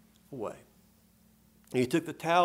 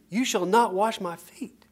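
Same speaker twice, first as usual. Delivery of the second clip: slow, firm refusal with weight on not; mild rebuke; 4 semitones higher, 4 dB louder than usual. Retold or imitated. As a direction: scold him a little, leaning on not. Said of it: "as in a rebuke".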